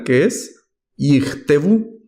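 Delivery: Yichtebu said slowly and carefully, syllable by syllable; slow pronunciation. Shown as a demonstration. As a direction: model Yichtebu slowly for the class. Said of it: "Lo estamos pronunciando acá el segundo".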